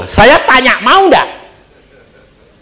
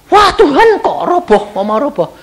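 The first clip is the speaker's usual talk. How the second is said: startled plea; 10 semitones higher than usual. Retold or imitated. Retold prayer to God.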